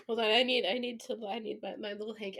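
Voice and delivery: usual speaking voice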